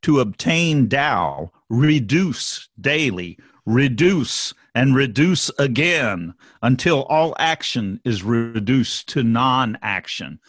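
slow, measured recitation; reading scripture aloud. Acted. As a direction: read each line slowly, like a text. Reads Tao Te Ching aloud.

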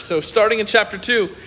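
ordinary talk, nothing marked

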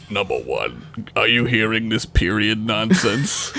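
a low, hammed-up captain's voice sliding back to normal; mock the captain with a deep, pompous "Number one"; Picard impression. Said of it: "He's like".

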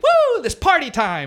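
high, drawn-out party cry; mock party whoop. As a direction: whoop slowly up high, imitating a show opener. Acts out his goofy opening.

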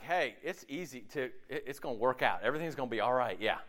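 low, soft, easygoing reassurance; unworried. Acted. Preacher voicing himself free of worry, calm reassurance. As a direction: let it go with relaxed assurance. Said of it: "When I'm not worrying".

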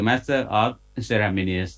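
"Master of Ceremonies" drawn out very slowly; unsure pronunciation. Real, not acted. Host spelling out what MC stands for, "Master of Ceremonies" slow and unsure. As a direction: feel your way through the unfamiliar "Ceremonies", stretching it. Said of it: "จะออกเสียงยังไง ไม่คุ้นกับคำนี้เลย".

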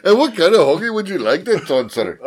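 mock Malaysian accent. Clerk asking about the hoagie, mock Malaysian accent. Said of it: "Uh, Malaysian".

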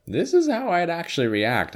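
high, bright mock actor aside. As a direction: voice a cast member going off script. Voicing actors' candid thoughts.

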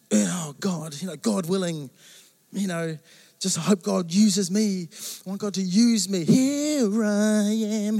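lightly voiced pious mate, slow at the end; earnest friend. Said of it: "he's the most earnest guy you can imagine".

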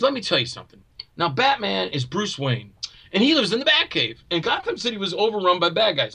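1 imitating superhero fan. Retelling co-star's superhero rant.

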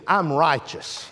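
low, hushed "I'm righteous"; quiet declaration. Real, not acted. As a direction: let "I'm righteous" sink in softly. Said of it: "I said".

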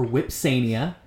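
WHIPSANIA with a W sound at the start; Latin pronunciation. Shown as a demonstration. Host announcing a Latin name, Latin pronunciation. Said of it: "try to pronounce most of these names".

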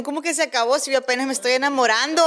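fast, laughing protest; laughing mock protest. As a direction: say it laughing and quick. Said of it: "las pupilas dijeron".

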